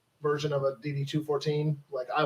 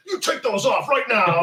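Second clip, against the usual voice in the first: slow, higher-pitched scolding; mock stern order; 5 semitones higher than usual. Imagined stickler ordering a scout, mock stern. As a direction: play a strict uniform enforcer, drawn out. Mock enforcer of uniform rules.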